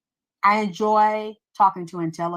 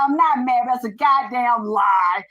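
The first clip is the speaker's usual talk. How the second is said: heated mock denial; 3 semitones higher than usual. Denying to him that she's mad, heated mock denial. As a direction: deny it emphatically, stretching the final words. Loud acted denial in retold argument.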